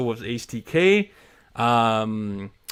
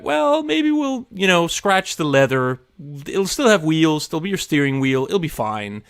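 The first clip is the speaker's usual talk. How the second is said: mock-reassure yourself, backing off; higher-pitched mock doubt easing into it'll be fine; hedging self; 5 semitones higher, 3 dB louder than usual. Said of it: "I'll be like".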